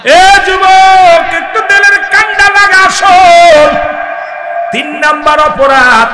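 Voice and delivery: high, loud, slow chanted call; high chanted call to the young listeners; preaching at full force. Acted. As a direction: cry out to the young men. Preacher calls to youth.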